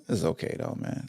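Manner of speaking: breathy unvoiced murmur to himself; hushed aside. Podcast host mutters to the fans under his breath. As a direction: drop to a near whisper, it's fine.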